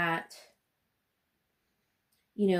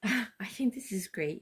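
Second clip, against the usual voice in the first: whispering. Real, not acted. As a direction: whisper it to yourself. Excited aside over cookies.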